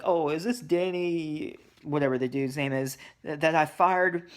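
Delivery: a hint of a puzzled boss on the phone; changed voice. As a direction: boss answering the kidnappers' call. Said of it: "then his voice changes".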